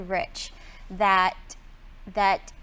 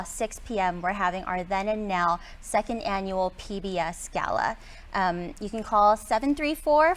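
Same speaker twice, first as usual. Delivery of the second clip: newscaster voice. Pretend. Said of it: "our best newscaster voice".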